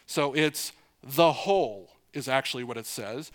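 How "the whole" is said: "the whole", with THE set apart and full; stress on the article. Shown as a demonstration. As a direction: lean on "the whole" as a literal reading. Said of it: "it has a definite article in front of it".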